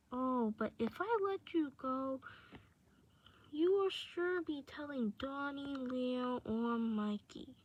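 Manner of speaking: lightly voiced obsessive admirer; possessive captor Raph. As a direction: refuse softly, then want them all to yourself.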